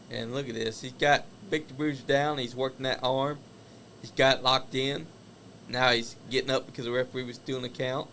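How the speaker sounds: live play-by-play wrestling call; wrestling commentator. Acted. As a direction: call the match as it happens. Calls the wrestling match live.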